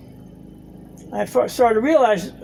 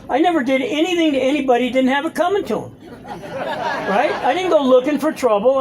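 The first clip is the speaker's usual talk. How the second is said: laughing through it; 4 semitones higher than usual. Retold or imitated. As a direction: laugh at your own old excuses. Retelling his self-justification with laughter.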